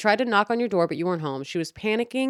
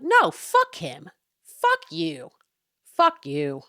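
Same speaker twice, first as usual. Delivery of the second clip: angry outburst; 5 dB louder, much slower than usual. Retold or imitated. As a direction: spit it out like you've had enough. Telling Dennis off about neighbor.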